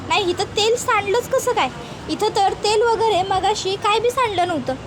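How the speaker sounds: a hint of a protesting village wife; lightly voiced rustic wife protesting. Wife explaining her slip to her husband, lightly voiced protest.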